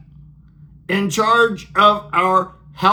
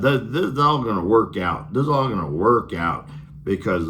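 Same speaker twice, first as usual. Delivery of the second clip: lower, offhand dismissive calm; mock reassurance; 5 semitones lower than usual. Bessent shrugging off the jobs numbers, mock calm. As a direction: wave the bad news away like it's nothing. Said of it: "it's like".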